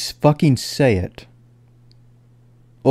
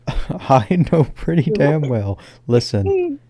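crying; 4 semitones higher, slower than usual. Real, not acted. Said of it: "now I'm gonna cry".

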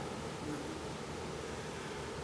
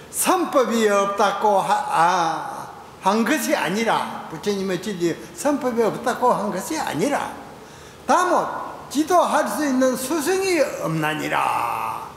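declaimed Zen answer; 3 semitones higher than usual. Acted. Seon master recites Hangbaek's answer to his assembly, declaimed. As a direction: proclaim it deliberately, stretching the final syllable.

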